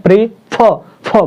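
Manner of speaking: प्रे then फ, the फ set apart and repeated; teacher's demo of pressure on फ; stress on final syllable. Shown as a demonstration. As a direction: split the word and lean on फ. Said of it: "ऐसा लग रहा है कि दबाव दे करके बोल रहे हैं".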